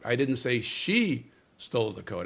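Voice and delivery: "she" lifted and weighted; "she" stands out, the rest falls; stress on she. Shown as a demonstration. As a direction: point at "she", not someone else. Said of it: "change the emphasis on a single word".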